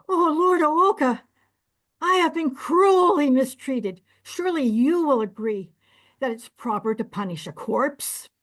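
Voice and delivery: high, loud self-pitying plea; pleading innkeeper. Acted. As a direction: whine to the judge for sympathy. Innkeeper pleads before the judge.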